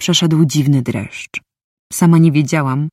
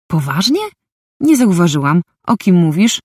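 sarcastic; 2 semitones higher than usual. Acted. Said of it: "rzuciłam sarkastycznie".

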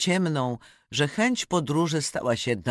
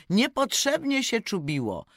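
turkey's speech; 4 semitones higher than usual. Acted. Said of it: "Indor powie".

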